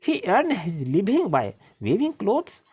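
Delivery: reading the story aloud, word by word; slow, careful read-aloud for the class; slow passage reading. Acted. Teacher reading the passage to her pupils, slow and deliberate.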